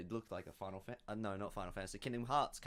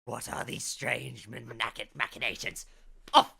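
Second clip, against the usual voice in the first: mock-horrified hobbit, slow build to outburst; appalled hobbit; 5 dB louder than usual. Hobbit wakes to find shoes on his feet, appalled outburst. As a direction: wind up slowly, then burst out at the offending shoes.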